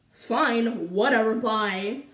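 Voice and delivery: drawn-out dismissive brush-off; slow, offhand 'whatever'. Retold or imitated. Student brushing off her teacher as she leaves, dismissive.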